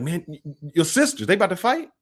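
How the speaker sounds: stammering, high-pitched mock alarm; alarmed onlookers. Visitor asking host about his sisters, stammering alarm. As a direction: imitate a worried visitor, rising to a high question. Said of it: "They be like".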